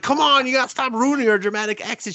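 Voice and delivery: very high, squeaky comic complaint; mock exasperation. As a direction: whine at your partner in an exaggerated high voice. Acted squabble at the stalled car.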